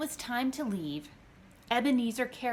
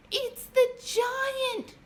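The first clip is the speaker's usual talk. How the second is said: high, loud, slow terrified shriek; 6 dB louder, much slower than usual. A narrator's reading. Lucy sees an enormous shadow, high loud shriek. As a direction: scream it out in terror. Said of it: "shrieked Lucy".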